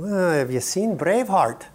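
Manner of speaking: cheeky reply through a laugh; laughing retort. Retold or imitated. Preacher jokes about his kilt, laughing. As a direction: toss it back with a chuckle. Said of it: "I said".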